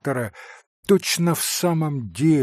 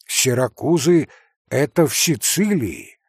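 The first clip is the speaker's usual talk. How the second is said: ordinary delivery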